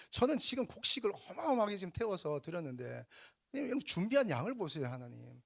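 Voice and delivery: whiny, aggrieved mock protest; Cain's imagined complaint. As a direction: plead your case to God, resentfully. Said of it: "이런 마음이 있는지는 모르겠습니다".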